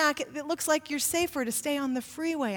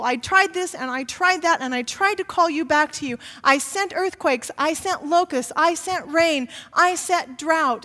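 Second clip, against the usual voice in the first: voicing God; 5 dB louder than usual. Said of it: "God tells these people".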